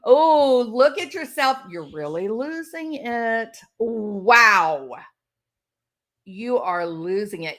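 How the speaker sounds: mock condescending narcissist, loud start then slow; a hint of a smug gaslighter. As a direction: sneer at them as if they're losing it. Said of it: "what else might you see, or hear a narcissist say".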